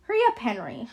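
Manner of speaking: high, loud excited calling; squeaky, excited old woman calling out; high-pitched squealing. A narrator's reading. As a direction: squeal for someone in the next room to come out. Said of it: "Her voice is high-pitched and squealing".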